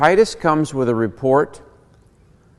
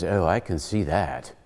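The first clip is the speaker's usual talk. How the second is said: lower, softer dry reply; lightly voiced professor; 7 semitones lower, 6 dB quieter than usual. Professor replying to the Narnia kids, lightly voiced low reply. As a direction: answer low and understated. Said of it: "And the professor says".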